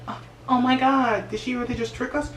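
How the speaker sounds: high, shocked, fading gasp; stunned disbelief. Retold or imitated. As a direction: sound betrayed and bewildered. Girls stunned by the betrayal.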